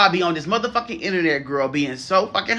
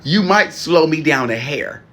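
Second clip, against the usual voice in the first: laughing; 3 dB louder than usual. Real, not acted. Laughing at her own boast.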